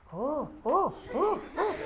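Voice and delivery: put-on a small child discovering magic; child's amazed cry. Speaker imitating a delighted child at the drawing. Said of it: "They sit there going".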